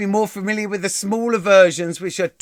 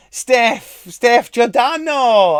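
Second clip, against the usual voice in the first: higher, drawn-out name call; 6 semitones higher, 5 dB louder, much slower than usual. Real, not acted. Calling to Steph in the audience, high drawn-out hail. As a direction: hail a viewer by name, louder.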